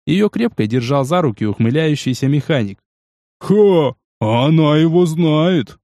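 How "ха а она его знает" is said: chuckling. Acted. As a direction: laugh it out. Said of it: "хохотнул жирный".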